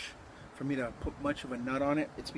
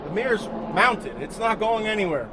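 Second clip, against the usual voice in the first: loud, raised voice over rotor noise; yelling over helicopter; 5 semitones higher, 7 dB louder than usual. Real, not acted. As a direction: shout over a helicopter flying past. Helicopter overhead, he talks over it.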